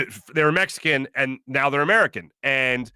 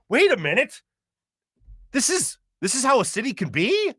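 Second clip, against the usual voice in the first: higher, wide-eyed wonder at the clean city; amazed disbelief; 8 semitones higher than usual. Retold or imitated. Northeasterner marvels at San Diego, mock amazed. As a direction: gasp it out like you can't believe it. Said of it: "You're like".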